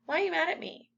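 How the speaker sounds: imitating someone who takes offence too quickly; mock hurt accusation. Jumping to conclusions, acted.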